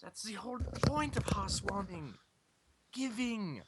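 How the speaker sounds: put-on German accent, lightly held. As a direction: keep reading with a German accent. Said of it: "I gotta stop doing the z".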